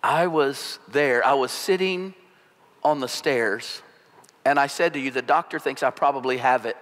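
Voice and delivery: a wife speaking as if from far away; lightly voiced numb, faraway wife; detached. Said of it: "in a detached voice".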